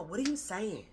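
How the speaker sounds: dismissive parent. Retold or imitated. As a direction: make the child feel small, lightly voiced. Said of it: "Not from a".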